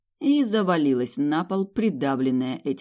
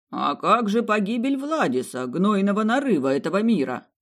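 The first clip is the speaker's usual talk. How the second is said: higher, louder stubborn plea; insistent old men; 6 semitones higher, 5 dB louder than usual. Acted. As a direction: refuse to give up. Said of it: "Не сдавались старички".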